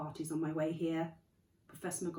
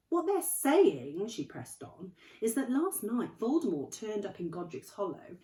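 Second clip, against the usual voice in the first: dreading, hesitant; 5 semitones higher, 8 dB louder than usual. Acted. McGonagall pressing on, dreading.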